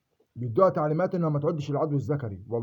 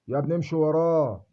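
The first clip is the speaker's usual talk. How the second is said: slower and louder, leaning on وراه with a long fall; pleading mock advice; 4 dB louder than usual. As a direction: urge him: امشي وراه, drawn out and pressed. People urging him to obey. (رجاء ممثَّل بصوت أعلى وأبطأ مع ضغط على وراه)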